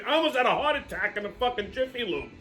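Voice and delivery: high, loud burst of sticker shock; outraged retelling. Retold or imitated. Customer reliving the shock of the oil change bill, outraged. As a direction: punch out each word in indignant disbelief.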